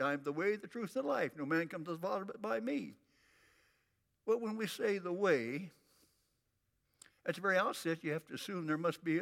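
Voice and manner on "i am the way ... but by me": brisk recital of a memorized verse; rattled off. Shown as a demonstration. Preacher shows how the congregation knows it by heart, rattled off. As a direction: run through it without pauses, as known by heart. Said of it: "You can rattle that off".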